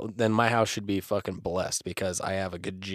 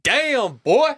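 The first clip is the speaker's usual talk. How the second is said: mock amazement; 12 semitones higher, 4 dB louder than usual. Joking about complex episode.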